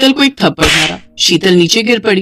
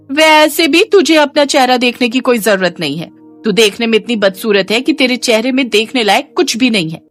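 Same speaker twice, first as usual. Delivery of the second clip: slightly raised pitch, lightly voiced spiteful sister-in-law; scornful sister-in-law; 4 semitones higher than usual. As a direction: put the girl down with mild disdain. Sister-in-law insults Komal. (ताने देती भाभी की हल्की ऊँची आवाज़)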